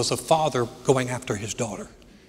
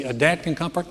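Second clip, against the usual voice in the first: doubtful question; 2 semitones higher than usual. Retold or imitated. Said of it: "You say".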